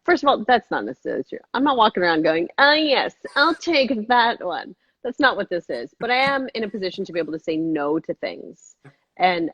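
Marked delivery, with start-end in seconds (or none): 2.6-4.7 lightly put-on grand chooser, pitched up; slowing into a mock self-important selection; mock picky artist. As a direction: imitate someone loftily picking from a menu.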